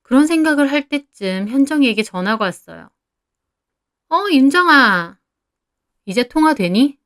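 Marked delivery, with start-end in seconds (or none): 4.1-7.0 friend on the phone. Acted. Friend calls, acted phone quote.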